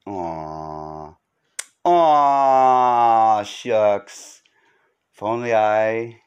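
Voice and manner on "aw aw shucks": mock bashful. Bashful reply to I love you.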